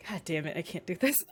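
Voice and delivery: put-on fast, half-hearted Southern accent. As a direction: try on a Southern accent, a little unsure. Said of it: "he has this deep Southern accent".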